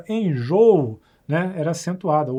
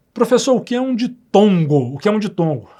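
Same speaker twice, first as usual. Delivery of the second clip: higher, louder mock student question; student asking; 4 semitones higher, 5 dB louder than usual. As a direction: play the curious student. Teacher voices a student's question.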